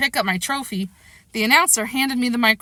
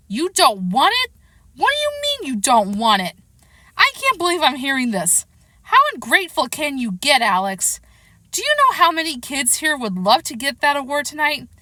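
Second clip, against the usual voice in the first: higher-pitched, incredulous scolding; indignant dad; 4 semitones higher than usual. Acted. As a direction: scold your son in outraged disbelief. Shocked dad scolds ungrateful son.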